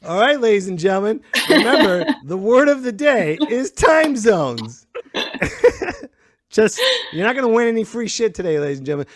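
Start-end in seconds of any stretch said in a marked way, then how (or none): 0.0-4.9 game-show style reveal, slowing into the final words; mock announcement. Host telling audience the word of day, mock-grand announcer. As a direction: proclaim it grandly, stretching the last phrase.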